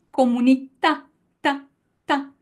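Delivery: comunità, ta with dry unaspirated consonants; no air on the k and t; Italian comunità. Shown as a demonstration. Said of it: "Listen to the difference".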